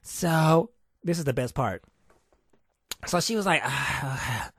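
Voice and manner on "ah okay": mock agent. Mimicking the agent asking.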